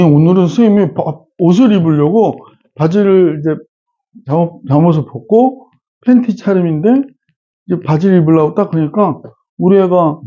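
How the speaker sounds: usual speaking voice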